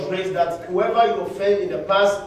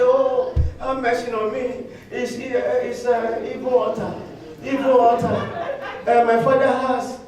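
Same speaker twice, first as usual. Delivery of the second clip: hammed-up higher pleading with the wife; mock pleading husband; 3 semitones higher than usual. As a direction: beg for mercy in a mock whine. Acted husband crying to wife.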